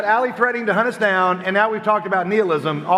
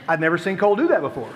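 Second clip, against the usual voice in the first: ordinary delivery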